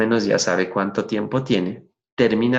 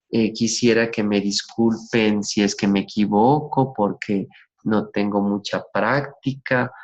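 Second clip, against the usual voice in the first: nervous apology; slower than usual. Shown as a demonstration. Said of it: "Hay gente que dice".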